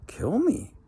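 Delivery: can't believe what he just heard; startled old man's cry; shocked. Acted. Old man shocked at threat.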